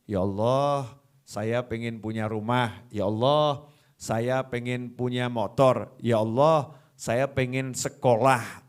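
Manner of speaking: a hint of a child asking for everything; lightly voiced pleading. Acted list of prayer wishes. (permohonan doa yang lirih)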